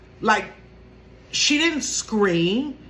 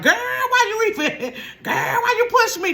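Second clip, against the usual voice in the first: imitating mad sister; 12 semitones higher, 3 dB louder than usual. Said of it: "look on her face like, you know, like she was mad".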